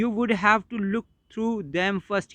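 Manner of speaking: slowed, lightly voiced mocking repeat of the son's words; mocking quote. Shown as a demonstration. Teacher re-quoting the son's complaint, slowed and lightly mocking. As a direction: echo it back with a slight put-on voice. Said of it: "क्या कहा था कि".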